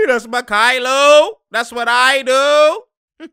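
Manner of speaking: high, slow, drawn-out brag; mock player boast. Streamer redoes Kylo's boast in a big voice. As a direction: ham up the cocky player. Same quote, hammed up.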